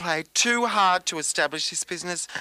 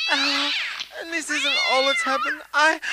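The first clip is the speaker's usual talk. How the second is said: starting to cry; 10 semitones higher than usual. Acted. Starts crying.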